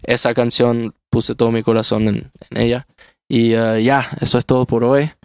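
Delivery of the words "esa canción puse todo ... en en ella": American accent Spanish. Real, not acted. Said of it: "disculpa mi español que no es tan bueno".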